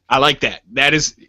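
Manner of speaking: ordinary delivery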